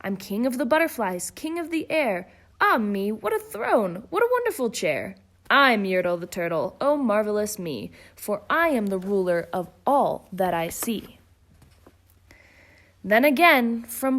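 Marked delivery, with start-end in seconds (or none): 0.0-11.2 gloating king. Acted. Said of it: "shouted Yertle".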